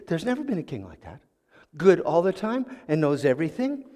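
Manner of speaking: quiet, skeptical irritation; mildly irritated. Acted. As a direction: push back with contained annoyance. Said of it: "got a little irritated".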